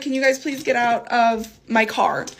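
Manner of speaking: calm, controlled polite request. Retold or imitated. Woman politely asking friends out of her car, restrained. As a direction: ask nicely, holding back the anger. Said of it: "I'm sitting here being so polite".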